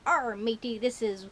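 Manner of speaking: hammed-up pirate talk. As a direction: growl it like a pirate. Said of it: "today is Talk Like a Pirate Day".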